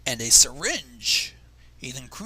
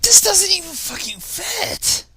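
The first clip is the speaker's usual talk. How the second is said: higher, louder and slow exasperated shout; real exasperated yell, pitched up; frustrated outburst; 8 dB louder, slower than usual. Real, not acted. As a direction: yell it in disbelief at the story.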